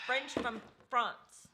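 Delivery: slow, put-on French accent; "French from France" drawn out in a French accent; mock French accent. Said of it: "mock French".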